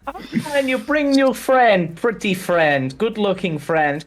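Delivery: put-on high, sing-out foreign-accented welcome; eccentric toymaker, delighted. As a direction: gush over returning friends. Game master plays toymaker Blinsky.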